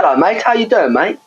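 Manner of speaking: a hint of Polish accent, voice lifted high; Polish geezer. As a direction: mimic a Polish bloke's cheery greeting in a Polish accent. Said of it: "It's like Polish geezer".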